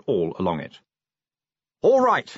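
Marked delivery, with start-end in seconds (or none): 1.8-2.3 loud, high shout; raised and pitched well up. A narrator's reading. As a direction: shout it over the coach noise. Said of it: "he shouted".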